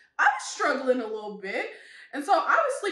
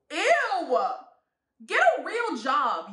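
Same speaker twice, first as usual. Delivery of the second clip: disgusted; 3 semitones higher, 5 dB louder, slower than usual. Real, not acted. Disgusted outburst.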